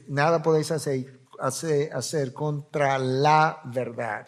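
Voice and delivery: "la verdad" slowed and leaned on, one single truth; stress on la verdad. Shown as a demonstration. Preacher stressing "la verdad" as singular, slow. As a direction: draw out "la verdad" to mark it as singular.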